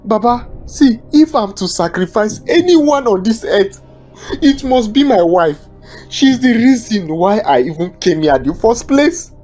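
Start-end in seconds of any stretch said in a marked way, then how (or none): 1.1-9.3 raised, higher voice full of grievance; heated, resentful blaming; bitter accusation. Acted. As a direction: build into an aggrieved outburst against the wife. Accuses wife, offers her for sacrifice.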